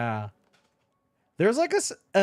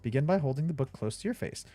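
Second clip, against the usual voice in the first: mock ad read. Reads the box blurb aloud.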